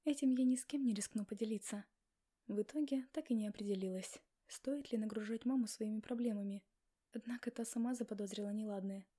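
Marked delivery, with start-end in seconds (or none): none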